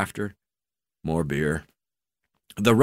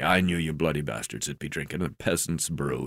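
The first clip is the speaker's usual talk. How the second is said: croaking; 2 semitones lower, 5 dB quieter than usual. Acted. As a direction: croak it out lazily. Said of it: "he croaked".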